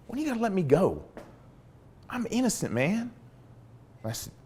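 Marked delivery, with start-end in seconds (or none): 0.1-3.1 higher, softer plea of innocence; pleading prisoner. Retold or imitated. Prisoner pleading with his interrogator, high and soft. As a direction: beg to be let go, voice lifted high.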